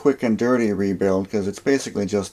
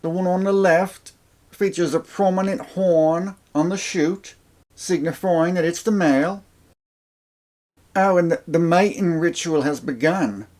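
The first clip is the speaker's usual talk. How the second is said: hushed wildlife narrator voice, higher; nature documentary; 8 semitones higher than usual. Pretend. Mock nature documentary intro.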